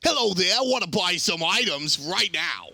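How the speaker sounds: a hint of a cartoon shopkeeper bomb; lightly voiced merchant pitch; Bomb King voice. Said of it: "I'll put on the Bomb King voice".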